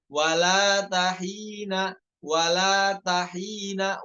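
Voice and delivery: "wala tahina" read slowly, "wala ta" then "hina"; correct grouping. Shown as a demonstration. Teacher showing the correct word split. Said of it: "wala ta satu kata, hina satu kata".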